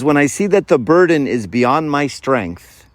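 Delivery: unhurried, devout quoting; reverent quote reading. Acted. Reciting quote slowly, reverently.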